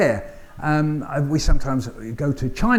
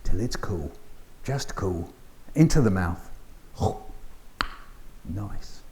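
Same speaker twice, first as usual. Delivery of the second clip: soft, lower, slow performed poem; 7 semitones lower, 7 dB quieter, slower than usual. Acted. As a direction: act out blowing on hot potato. Performing the hot potato poem.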